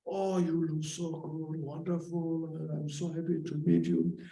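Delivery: high, bright gushing hello; high, happy friendly welcome; cheerful mock greeting. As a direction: greet an old friend with delight. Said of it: "When you meet your friends".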